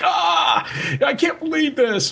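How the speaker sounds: a hint of the original heartbreak; retold dismay. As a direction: replay the moment the news hit, half-acted. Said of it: "still very like".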